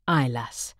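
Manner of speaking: low, drowsy Aye lass through a door; sleepy husband. Retold or imitated. Frog husband heard outside the door, low and drowsy. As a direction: murmur it half-asleep.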